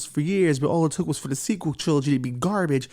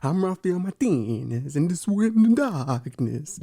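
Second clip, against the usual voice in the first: vampire voice; slower than usual. Pretend. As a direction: greet them like a creepy count, slowly. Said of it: "Is that a good vampire voice".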